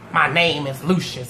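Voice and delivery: low, slow-paced retort after a pause; curt retold correction. Son correcting his mother before walking off, curt.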